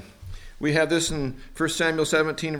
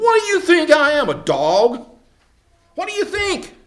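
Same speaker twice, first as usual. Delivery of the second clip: loud, high, indignant roar; bellowing giant; 10 semitones higher, 7 dB louder than usual. Acted. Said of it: "bellowing around and carrying on with his deep voice".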